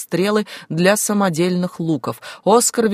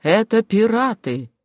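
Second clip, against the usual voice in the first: high, drawn-out warning cry; alarmed yell; 4 semitones higher, slower than usual. A narrator's reading. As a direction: cry the warning out slowly, pitched up. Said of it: "заорал он вдруг". (протяжный тревожный крик)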